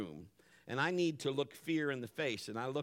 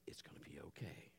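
low, breath-only reassurance; hushed, tender murmur; soothing whisper; 12 semitones lower, 17 dB quieter than usual. Retold or imitated. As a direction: whisper comfort to a frightened child. Father soothing hurt child.

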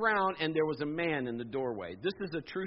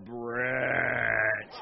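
low, slow eerie call of a name; eerie Jesus voice; 6 semitones lower than usual. Retold or imitated. Preacher imitates the creepy movie Jesus calling him. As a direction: call out like a spooky apparition.

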